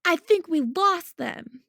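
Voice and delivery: slow loud high call; yelled. A narrator's reading. Boy yelling to the group after escaping, loud. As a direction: call it out relieved. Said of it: "someone yelled".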